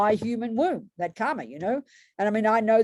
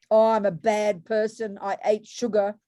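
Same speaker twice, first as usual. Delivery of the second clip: guilty self-blame; 3 dB louder than usual. Retold or imitated. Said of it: "we think regret is guilt".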